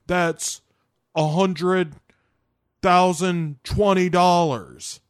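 high-pitched haggling, with thinking pauses; Nicolas Cage. Acted. Cage negotiates with Calitri, high voice, halting sums. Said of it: "And Nicolas Cage ... is like".

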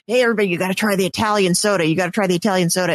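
quoted eager pitch. Retold or imitated. Quoting eager soda pitch, sped up.

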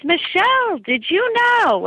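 put-on high, slow New York Jewish accent. Cousin Stephen telling her about Jesus, in a Jewish accent. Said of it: "this is my Jewish accent coming in".

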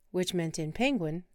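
usual speaking voice

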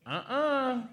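high, short "uh-uh" of refusal; a small high-pitched warning noise; inner-prompting "uh-uh". Acted. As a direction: voice a gentle inner no. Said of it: "down here it'll be like".

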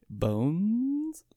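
hushed, unsure guess; whispered guess. Real, not acted. Player whispers a tentative movie guess. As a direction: whisper the title to yourself.

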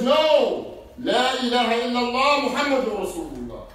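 loud firm creed; firm declaration. Retold or imitated. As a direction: declare it proudly. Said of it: "The Muslim says".

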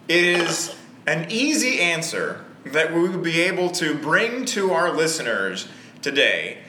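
hammed-up host announcement; podcast voice. Host introducing the debate to listeners, podcast voice. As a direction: pitch the debate like a show host. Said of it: "Why are you talking like that?".

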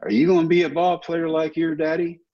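a hint of a folksy Texas drawl; mild Texas drawl impression of a friendly president; President Bush. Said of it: "in his Texas drawl".

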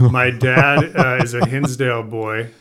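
thrilled by the coincidence; real surprise breaking into a laugh; excited disbelief. Real, not acted. Shocked both from Hinsdale.

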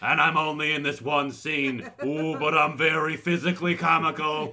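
lightly voiced town drunk, laughing; a hint of a rowdy drunk. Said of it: "I'm the town drunk".

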